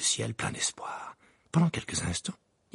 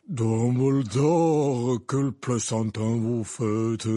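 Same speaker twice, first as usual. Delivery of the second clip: suppressed giggles; 4 dB louder, much slower than usual. Acted. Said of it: "en pouffant de rire".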